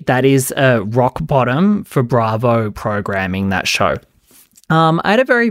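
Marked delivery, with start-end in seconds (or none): 0.1-4.0 slow, deliberate, each word weighted; measured, declarative, no-doubt emphasis; emphatic statement. Shown as a demonstration. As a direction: lay it down emphatically for the record. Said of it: "am saying this emphatically".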